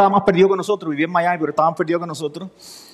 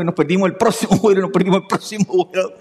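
repeating it through a real laugh. Real, not acted. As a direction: let laughter creep into the words. Ríe al recordar vuelos perdidos. (entre risas)

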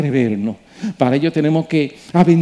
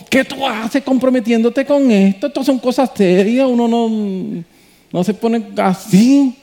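mock inner scolding; 6 semitones higher than usual.

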